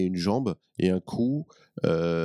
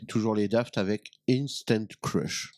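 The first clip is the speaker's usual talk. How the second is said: put-on accent anglais à la de Funès; slower than usual. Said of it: "mon accent anglais à la Louis de Funès".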